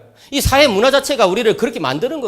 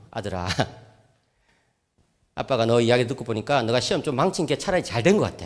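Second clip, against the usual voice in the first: serious fatherly talk; 7 semitones lower, 7 dB quieter than usual. Retold or imitated. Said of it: "진지한 이야기를 했죠".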